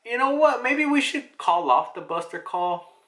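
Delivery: a hint of nervous urgency; urgent suggestion. Vice admiral urging retreat.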